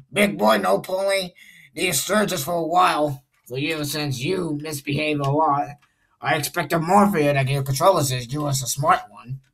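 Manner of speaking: lightly voiced railway director, pitched a little up; a hint of a lecturing boss; Mister Davis. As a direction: address an engine as its director. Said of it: "I'm gonna be doing that voice".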